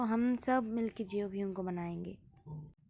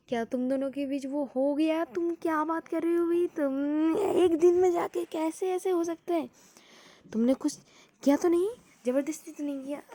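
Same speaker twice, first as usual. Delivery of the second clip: higher, louder stunned questioning; shocked; 5 semitones higher, 4 dB louder than usual. A narrator's reading. JK grills V after the news, shocked. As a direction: fire the questions in disbelief. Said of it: "जेके पूरा shocked होके पड़ा था".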